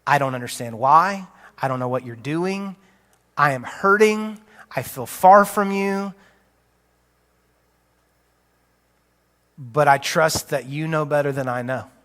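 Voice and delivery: a hurting believer speaking to God; humble prayer. Shown as a demonstration. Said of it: "humility that says".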